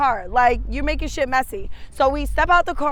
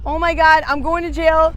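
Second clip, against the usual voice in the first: panicked; 3 semitones higher, 6 dB louder than usual. Retold or imitated. Panicking about the ounce in car.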